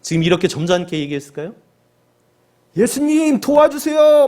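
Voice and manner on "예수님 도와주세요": high, loud cry for help; desperate shout. Acted. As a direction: yell for help as if from far away. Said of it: "막 이렇게 소리치지 않았겠어요?".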